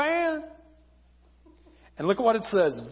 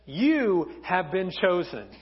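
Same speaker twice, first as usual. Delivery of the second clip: angel announcement; slower than usual. Acted. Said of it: "An angel of the Lord comes to her and says".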